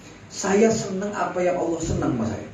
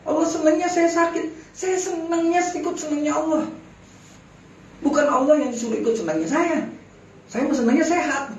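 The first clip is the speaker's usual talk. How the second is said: contented sick man; 8 semitones higher than usual. Retold or imitated. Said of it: "kata Ibrahim bin Hussein".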